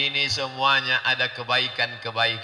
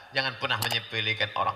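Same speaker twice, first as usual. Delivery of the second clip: urgent warning; 3 semitones lower, 6 dB quieter, faster than usual. Real, not acted.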